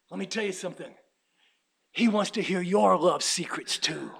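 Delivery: soft secret whisper. Real, not acted. Preacher whispering to the congregation. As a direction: breathe it like a secret.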